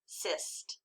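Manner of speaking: "Cyst" said softly, unstressed; "Cyst" as a hushed, unaccented syllable; Cyst without the accent. Shown as a demonstration. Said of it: "read the second syllable without the accent".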